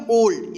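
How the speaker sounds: "ओल्ड" with the o held as in go; long o. Shown as a demonstration. Teacher answering own question for learners, "ओल्ड" with long o. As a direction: say "ओल्ड" starting on a pure o. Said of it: "क्या पढ़िएगा?".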